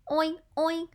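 two short imitated oinks; pig oinking. Shown as a demonstration. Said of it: "it's a pig".

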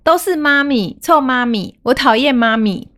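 lightly voiced angry little girl; child scolding mommy. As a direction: playfully act out a sulky kid's insults. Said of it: "他就开始骂我".

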